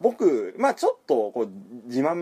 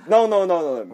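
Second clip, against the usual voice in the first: louder, higher string of mock noes; imitating an accent pedant; strict pronunciation stickler; 4 semitones higher, 4 dB louder, slower than usual. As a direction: interrupt like a fussy English pupil. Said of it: "アクセントにめちゃめちゃ厳しい英会話教室行ってる".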